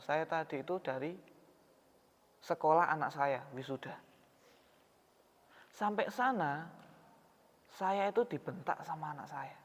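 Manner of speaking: a father quietly explaining why he weeps; hurt father. Retold or imitated. Hurt father tells his story.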